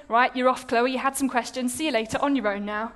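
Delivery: brisk mock send-off, quickening at the end; cross dismissal. Imagined God dismissing her for doubting, cross. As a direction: send someone packing in a mildly cross voice. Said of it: "I expected God to be cross".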